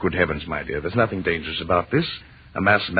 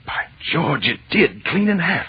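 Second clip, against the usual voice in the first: excited exclamation; 10 semitones higher, 5 dB louder, slower than usual. Acted. Stone breaks open.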